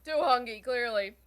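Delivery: laughing through hiccups; hiccuping while eating. Real, not acted. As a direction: hiccups jolting the words. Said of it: "I got hiccups".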